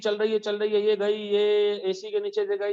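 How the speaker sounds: lightly acted wandering attention, level running commentary; mock distracted student thinking aloud; absent-minded tracing. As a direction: follow a wire along absently, in an even drone.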